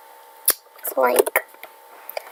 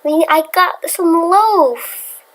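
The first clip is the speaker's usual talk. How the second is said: excited; 6 semitones higher, slower than usual. Real, not acted. Finally got loaf.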